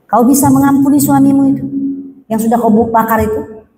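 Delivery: asked fast, pressing; first quick take of the forgiveness question; quick first asking. Retold or imitated. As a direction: rush the question out. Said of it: "saya tanya sekali lagi".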